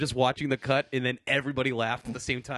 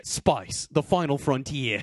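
Australian accent; much slower than usual. Shown as a demonstration. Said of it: "Australian accent".

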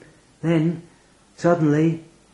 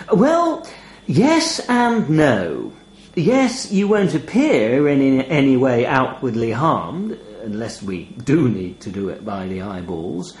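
raven voice. Acted. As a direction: toy with him like a raven. Raven answers.

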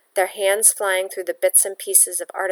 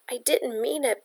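soft, quiet whimper; 5 semitones higher, 5 dB quieter than usual. Acted. Frightened girl to Pietro, soft whimper. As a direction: plead softly, near tears. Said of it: "Bella whimpered".

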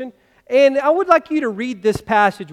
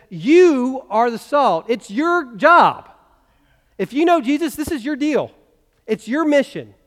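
loud, slow, rising-fervor preaching; fervent declaration; 4 semitones higher, 4 dB louder than usual. Acted. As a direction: proclaim it to the congregation with rising fire. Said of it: "Jesus is looking at us today and says".

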